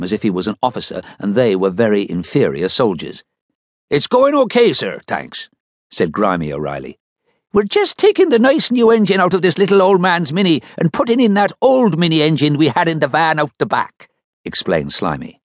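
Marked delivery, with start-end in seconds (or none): 3.9-5.5 mechanic's voice. Acted. Mechanic Grimy answers captain. 7.5-14.1 mechanic's voice. Acted. Mechanic Slimy explains.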